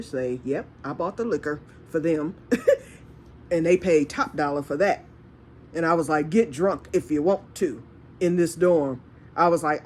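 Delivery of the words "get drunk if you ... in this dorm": retold warning. Telling dorm drinkers what she allowed, a contained retold warning.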